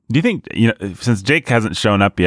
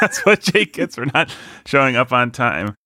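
laughing; 5 semitones higher than usual. Real, not acted. Laughing while repeating.

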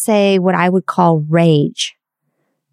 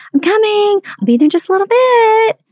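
high, light call back while busy; distracted mom calling back. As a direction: call down sweetly, not really coming. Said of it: "And I would say".

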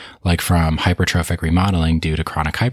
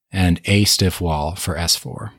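slow, leaning on "a stiff wall"; stress on a; slower than usual. Shown as a demonstration. Teacher repeating the memory trick to students, stress on a. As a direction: give "a" weight in "a stiff wall". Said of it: "hence the emphasis is on the word a".

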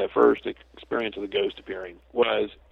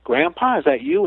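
high, louder realization; imagined listener surprised, louder; sudden recognition; 9 semitones higher, 5 dB louder than usual. Retold or imitated. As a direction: voice jumps up calling to grandpa. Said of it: "and you're going".

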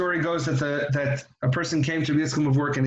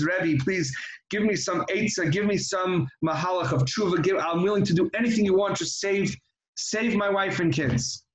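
desperate pleading; 2 semitones higher than usual. Acted. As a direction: beg the Rebbe to save his wife. Man pleads with the Rebbe.

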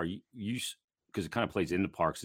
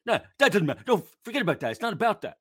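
mock dismissive boss; 12 semitones higher, 5 dB louder, faster than usual. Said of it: "he'd be like".

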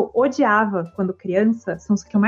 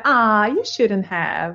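grateful set phrase; much slower than usual. Shown as a demonstration. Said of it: "a frase que a gente usa é".

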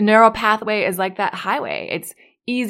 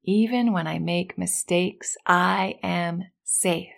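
even slower, stretched-out affirmation; slower than usual. Shown as a demonstration. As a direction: draw each word out for the echo. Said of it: "repeat after me".

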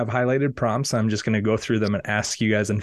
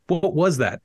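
a lightly raised, hammed-up shout; mock shout; 5 semitones higher than usual. Rudy Gobert hears a noise outside, mild mock shout. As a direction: call out in mild mock alarm. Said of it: "shouted Rudy Gobert".

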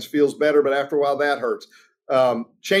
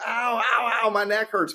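higher-pitched hammed-up whimper of a complainer; mock whining; 6 semitones higher than usual. He isn't walking around whining to coworkers, mock high whimper. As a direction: play the big baby, whining over his neck. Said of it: "He isn't walking around going".

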